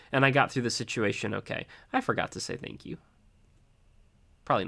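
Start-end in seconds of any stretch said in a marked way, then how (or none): 1.9-3.0 sheepish whisper. Real, not acted. Confessing his own forgotten thanks.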